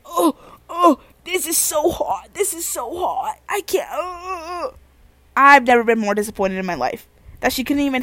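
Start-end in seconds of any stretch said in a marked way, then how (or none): 0.1-4.7 high, drawn-out fake sobbing; mock whining sister. Mocking sister who can't handle half a chip, whiny fake crying. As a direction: imitate a sister wailing over spicy food, hammed-up.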